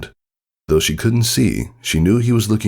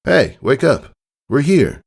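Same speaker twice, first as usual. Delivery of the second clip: raised, bright wake-up call; 9 semitones higher, 3 dB louder than usual. A narrator's reading. Father waking his dozing daughter on arrival, a mild call. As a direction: rouse her cheerfully.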